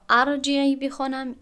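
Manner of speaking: ارجعی read with an open a on the first vowel, arjiee. Shown as a demonstration. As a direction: start ارجعی with a broad a sound. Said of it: "شاید شما گمان کنید که من این را".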